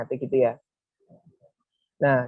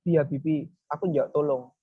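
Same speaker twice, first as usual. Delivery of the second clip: toneless, matter-of-fact plea; flat request. Shown as a demonstration. Showing how not to ask someone for help, flat and uninvolved. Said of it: "Mosok ya datar-datar ae".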